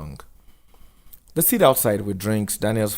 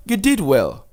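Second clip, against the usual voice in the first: higher, louder praise; encouraging social worker; 10 semitones higher, 6 dB louder than usual. Acted. Missus Dube encouraging Daniel after the talk, higher voice. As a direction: reassure him kindly.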